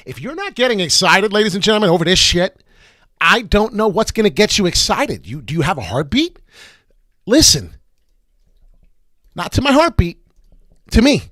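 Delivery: high, loud hype shouting; excited shouting. Real, not acted. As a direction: whip the viewers into a frenzy. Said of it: "I can't be loud enough".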